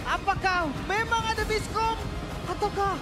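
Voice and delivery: fighting game announcer. Real, not acted. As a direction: roar the result over the crowd. Caster proclaiming clean sweep.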